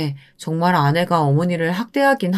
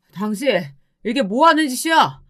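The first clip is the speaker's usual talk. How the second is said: a touch of a raised voice at his wife; mild acted shout; 5 semitones higher than usual. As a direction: confront her, only half shouting. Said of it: "아내에게 소리쳤어요".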